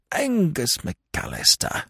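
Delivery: slow, high-pitched grievance; name him bitterly, drawn out. A narrator's reading. Lord complaining about McAllister, bitterly. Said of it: "observed Lord Emsworth bitterly".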